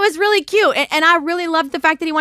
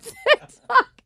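son's voice; 12 semitones higher than usual. Retold or imitated. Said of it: "I heard him saying".

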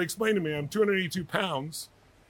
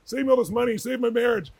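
high, loud gushing; imitating a thrilled admirer at full tilt; excited fan; 6 semitones higher, 6 dB louder than usual. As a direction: pile on the praise excitedly. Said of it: "was excited when he met me".

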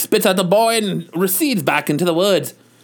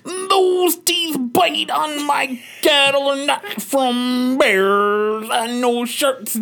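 screaming dad; 4 semitones higher, much slower than usual. Acted. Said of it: "starts screaming".

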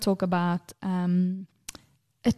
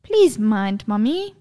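imitating polite toddler; slower than usual. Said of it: "What do you say?".

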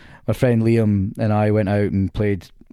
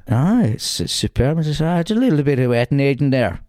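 a rough, hammed-up Irish lilt, pitched up; terrible Irish accent; 5 semitones higher than usual. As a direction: put on a clumsy Northern Irish accent for Gary. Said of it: "That's a terrible accent".

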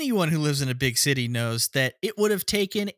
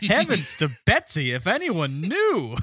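fussy banker; 2 semitones higher than usual. Retold or imitated. Voicing the dumb banker.

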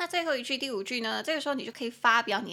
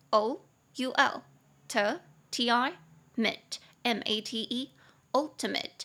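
slow spelling out; much slower than usual. Shown as a demonstration. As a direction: slowly spell and sound out ultimate. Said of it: "三个音节".

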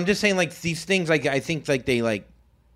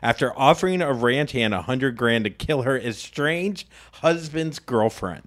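news read. Acted. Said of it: "reading the headline".

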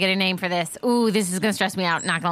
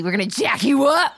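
playful shout; 4 semitones higher, 4 dB louder than usual. Pretend. Playful threat to the Pokemon.

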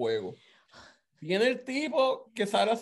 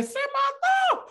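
high, loud, stretched-out shocked shout; retold shout at a kid's fall; shocked yell; 6 dB louder, much slower than usual. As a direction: yell it slowly in mock horror. Kid's head twists, he yells.

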